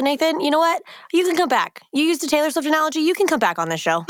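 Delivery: high and fast, thrilled; gushing with delight; excited. Real, not acted. Host delighted by guest's analogy.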